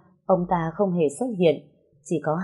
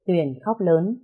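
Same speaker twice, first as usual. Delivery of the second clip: ordinary delivery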